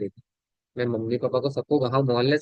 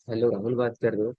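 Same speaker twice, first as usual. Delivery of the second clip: low-energy phone greeting, subdued; subdued, slightly low-pitched opener; 3 semitones lower than usual. Shown as a demonstration. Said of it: "energy down है".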